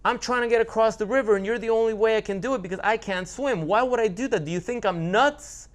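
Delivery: hammed-up scorpion voice; gaslighting scorpion. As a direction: play the wronged innocent to con him. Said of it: "the scorpion gaslights the frog and tells the frog".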